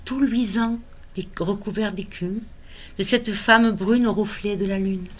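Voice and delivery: measured, tender poem recital with pauses between lines; poem reading. Acted. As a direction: read your own poem to a newborn, phrase by phrase. Recites own poem to grandson.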